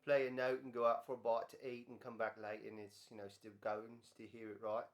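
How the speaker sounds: put-on a faint, terrible British accent; lightly put-on British accent, barely there; Nigel Tufnel British accent. Quoting a rock legend to viewers in a weak British accent. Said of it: "it's my terrible British accent".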